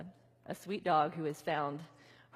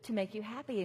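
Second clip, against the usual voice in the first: put-on a touch of baby talk; mother trying to cheer her crying baby; cooing at a baby; 4 semitones higher, 3 dB louder than usual. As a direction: coax the crying baby playfully. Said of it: "it's like".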